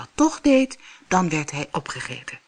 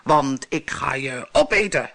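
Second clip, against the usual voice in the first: monster roar; 3 semitones lower than usual. Acted. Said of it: "bulderde het monster".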